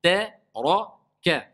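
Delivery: Ta light, ra heavy and rounded, ka light; syllable demo: thin Ta, full ra, thin ka. Shown as a demonstration. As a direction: separate Ta, ra, ka, darkening only the ra. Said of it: "Donc ça va être comment?".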